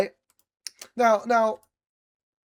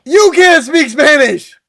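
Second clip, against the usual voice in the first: higher, louder and slowed, parroting the jab back; mocking echo; 7 semitones higher, 8 dB louder than usual. Co-host echoes the Spanish jab to tease, mocking and slowed. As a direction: throw his own line back at him in a mocking voice.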